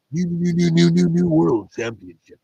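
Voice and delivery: high, loud repeated NEW; joking stuck-record announcement. Pretend. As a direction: hammer "new" like a skipping announcer. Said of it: "Did I already make that joke".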